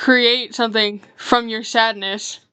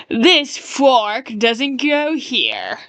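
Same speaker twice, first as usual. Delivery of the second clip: slow, haughty upper-class drawl; pompous rich guy; much slower than usual. Retold or imitated. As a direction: look down your nose at the cutlery. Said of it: "They speak like a, a pompous rich guy".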